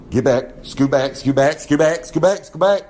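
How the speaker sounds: rising shoo-away chant; shooing them back. Retold or imitated. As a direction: wave the guys back, pushier each time. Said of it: "That's what I would say".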